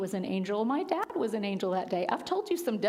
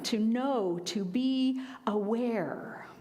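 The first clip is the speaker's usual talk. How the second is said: slow whisper; much slower than usual. Real, not acted. Soft close of the teaching.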